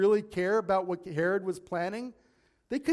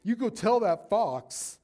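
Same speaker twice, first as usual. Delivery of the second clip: scornful command; 4 semitones higher, 5 dB louder than usual. Acted. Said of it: "he wasn't being, you know, nice".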